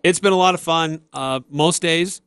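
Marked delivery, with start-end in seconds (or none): 1.1-2.2 slow, straight-faced tease; deadpan. Real, not acted. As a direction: drop it in slowly, straight-faced. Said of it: "said it with a straight face".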